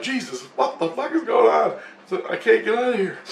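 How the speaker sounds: high-pitched mock exasperation; retold exasperated alarm. Dreamer recalling being unable to climb out, high exasperated cry.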